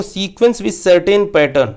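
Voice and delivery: each word read out slowly and spaced; slow dictation. Shown as a demonstration. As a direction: read the definition off the board slowly. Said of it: "देखिए हम क्या कहते हैं progression को".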